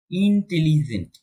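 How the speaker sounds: "ইন্টেলিজেন্ট" slowly split into syllables; slow, measured "ইন্টেলিজেন্ট", each syllable counted. Shown as a demonstration. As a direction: sound out every syllable of "ইন্টেলিজেন্ট". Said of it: "যখন syllable একটার বেশি থাকে".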